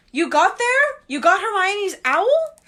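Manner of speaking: high, loud eager questions; surprised question. Acted. Harry amazed Dumbledore got the owl, high and loud. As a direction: ask it in amazed disbelief.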